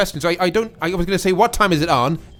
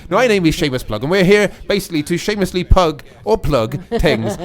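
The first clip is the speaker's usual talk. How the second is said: put-on dodgy Irish accent. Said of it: "with this dodgy accent".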